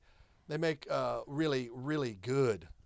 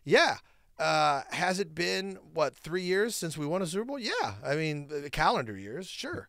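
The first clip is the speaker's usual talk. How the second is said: smug gloating; 4 semitones higher than usual. Acted. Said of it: "Why do you say it like that?".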